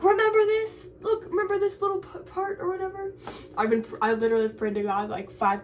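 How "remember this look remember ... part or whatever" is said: God voice. Retold or imitated. God quizzing the student at judgment, in a hammed-up high voice. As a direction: play God teasing her with a half-remembered fact. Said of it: "God can be like".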